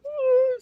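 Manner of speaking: high, hammed-up wailing ooh; imitating someone about to cry; mock wail. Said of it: "start crying".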